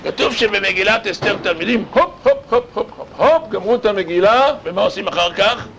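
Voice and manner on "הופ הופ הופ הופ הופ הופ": excited cheer. Acted. Cheering end of reading, laughing.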